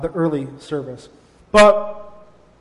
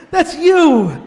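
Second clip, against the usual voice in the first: laughing repeat; 10 semitones higher, 7 dB louder than usual. Real, not acted. Repeats God's line, laughing.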